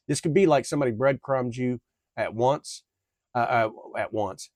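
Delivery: tripping over the words; stuttering. Real, not acted. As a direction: stumble and repeat the phrase. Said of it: "I am stuttering on my damn words".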